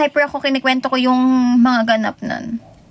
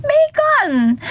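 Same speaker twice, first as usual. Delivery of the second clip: bursts out laughing on a much higher bacon; laughing exclamation; 10 semitones higher than usual. Shown as a demonstration. Streamer repeats the food joke, laughing high. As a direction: laugh and throw the word up high.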